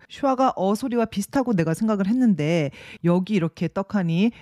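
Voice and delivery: ordinary delivery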